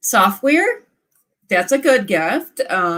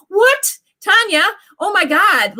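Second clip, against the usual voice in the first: surprised; 11 semitones higher than usual. Real, not acted. Surprised to see a viewer.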